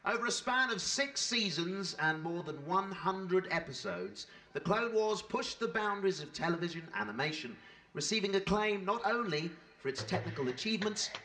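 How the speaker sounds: measured, formal tribute narration; polished stage-host read; scripted presenter read. Real, not acted. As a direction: present the show's achievements to an audience. Host reads scripted show introduction.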